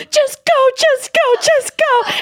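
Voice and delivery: very high, frantic mock wail; hysterical sobbing, imitated. Terrified friend begs driver to leave, imitated hysterical pleading. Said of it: "hysterically sobbing and goes".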